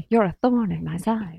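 put-on old forties movie mid-Atlantic patter; hammed-up mid-Atlantic film talk; forties mid-Atlantic accent. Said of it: "like, a mid-Atlantic".

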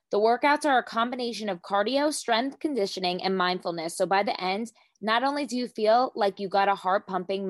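upbeat sponsor read; podcast ad read. Acted. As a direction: sell the product brightly. Host reads sponsor ad.

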